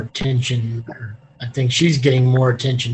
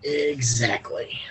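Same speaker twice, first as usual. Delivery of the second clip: whispering; 7 dB quieter, slower than usual. Acted. Whispered agreement in conversation.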